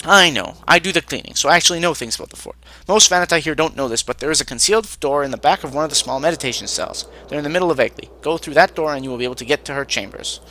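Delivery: lightly voiced cook, starting loud and emphatic; knowing cook. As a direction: announce inside knowledge as a proud servant. Cook reveals a secret door.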